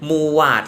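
"Mugwort" said roughly "moo-wat"; alternative pronunciation. Shown as a demonstration. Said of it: "มันออกเสียงยังไงอะ".

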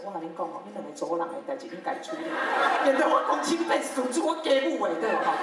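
blunt Taiwanese aside breaking into a laugh, pitch climbing. Retold or imitated. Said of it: "真实的状况是".

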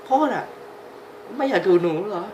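put-on high little kid voice asking dad; child voice. Dubbing the child's lines. (เสียงเด็กเล็กพูดกับพ่อ)

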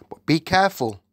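unvoiced whisper of warning; whispered to herself. A narrator's reading. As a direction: breathe the warning to yourself. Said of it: "the Queen told herself".

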